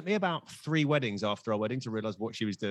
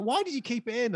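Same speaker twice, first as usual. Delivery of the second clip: imitated wife, pitched way up; high-pitched challenge; 12 semitones higher than usual. Wife questioning husband about holding back tears, high-pitched challenge. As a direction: demand it in a high retold voice. Acts out wife's reply.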